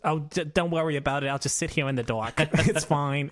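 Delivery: Jewish mother impression. Guilt-tripping Jewish mother refusing help with the light bulb, lightly voiced. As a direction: sigh out the martyr mother bit. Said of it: "that's my go-to Jewish impersonation".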